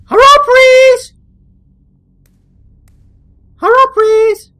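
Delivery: loud high desperate call; hammed-up begging; mock pleading. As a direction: beg out loud. Pleading loudly.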